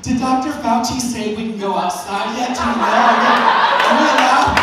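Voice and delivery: hammed-up needy questioning; anxious modern men. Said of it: "Now men are like".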